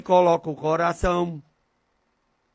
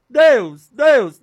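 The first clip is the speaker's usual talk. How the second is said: high, loud repeated call; loud crying out; 6 semitones higher, 8 dB louder than usual. Shown as a demonstration. Preacher tries out names for calling God, loud crying out. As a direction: cry the name out forcefully, twice. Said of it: "Não, não, é Pai em Criador".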